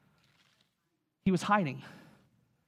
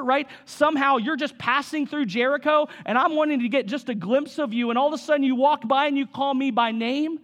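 higher-pitched, incredulous questioning; can't believe he's the one picked; acted disbelief; 4 semitones higher than usual. Zacchaeus marvels that Jesus called him by name, incredulous.

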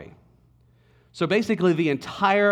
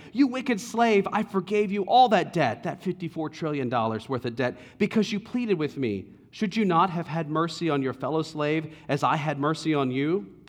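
angry rebuke. Acted. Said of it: "And in anger".

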